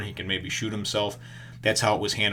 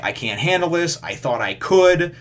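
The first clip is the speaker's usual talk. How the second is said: mock breakdown; 7 semitones higher, 7 dB louder than usual. Shane breaking down, gun drawn.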